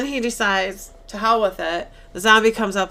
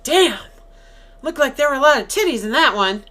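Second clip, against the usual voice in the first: mock excited guy; 6 semitones higher, 6 dB louder than usual. Guy reacting to nudist zombie tape.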